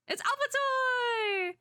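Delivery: high, slow, drawn-out announcement; heroic entrance call. Acted. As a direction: ring out the hero's name. Character arrives calling out.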